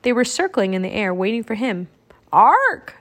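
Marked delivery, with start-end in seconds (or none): 2.3-3.0 high, loud single caw; raven croak. A narrator's reading. Jack reaching Annie and Teddy, croaking. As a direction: let out one big rising squawk. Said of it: "Jack croaked".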